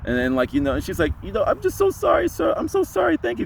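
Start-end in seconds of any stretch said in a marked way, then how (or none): 1.2-3.5 put-on very high apologetic woman, Hispanic accent; imitated Hispanic accent. Tearful passenger apologising to the driver, high-pitched Hispanic accent. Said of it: "a Hispanic accent".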